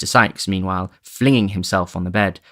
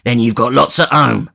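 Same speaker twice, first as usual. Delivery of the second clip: retorting; 4 semitones higher, 6 dB louder than usual. Acted. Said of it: "retorted Sikes".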